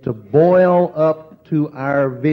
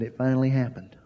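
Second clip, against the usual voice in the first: soft awed whisper-like line; hushed, shaken; trembling voice; 6 dB quieter, faster than usual. Retold or imitated. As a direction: friend breaks the news, softly trembling. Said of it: "her voice was trembling".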